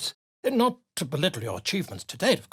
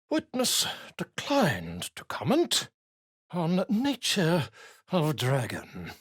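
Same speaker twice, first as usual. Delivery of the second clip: dictating while writing; 3 dB quieter than usual. Acted. Scribe dictating as he writes.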